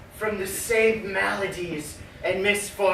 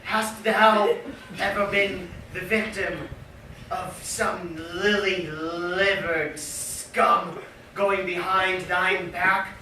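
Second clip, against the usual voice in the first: projected. Acted. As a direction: throw it out boldly. Question repeated, second take projected.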